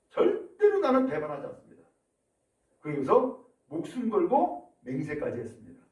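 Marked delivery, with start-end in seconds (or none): 0.1-1.8 emphatic vow. Acted. Peter vows to Jesus.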